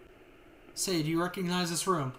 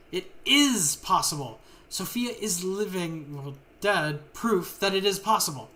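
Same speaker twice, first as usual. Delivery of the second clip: insistent argument; 4 dB louder, slower than usual. Acted. Scientists argue over experiment.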